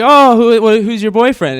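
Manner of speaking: a hammed-up excited big brother; mock excited. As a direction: play up fake interest. Mock excited question to sister.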